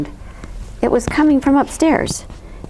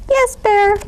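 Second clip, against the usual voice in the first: sighing; 12 semitones higher, 3 dB louder than usual. A narrator's reading. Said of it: "sighed Mouse".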